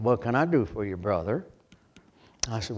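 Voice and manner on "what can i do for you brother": put-on low, hushed voice of an old preacher; lightly voiced big old preacher, low and soft; quiet John Rice. Preacher recalls Doctor Rice, low and hushed. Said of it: "he said".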